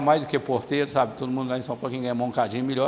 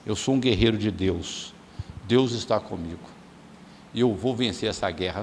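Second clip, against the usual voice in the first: congregation declaration model; 6 semitones lower, 4 dB quieter than usual. Shown as a demonstration.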